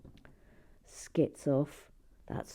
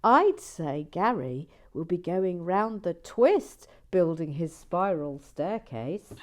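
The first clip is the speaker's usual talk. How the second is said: retelling the joke; 7 dB louder than usual. Retold or imitated. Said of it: "Let's have it again".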